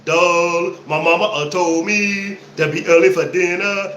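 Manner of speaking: dumb buzzard voice. Retold or imitated. Quoting the cartoon buzzard to his friend, dopey voice. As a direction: play the dim-witted buzzard who always gets outsmarted. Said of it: "this dumbass buzzard".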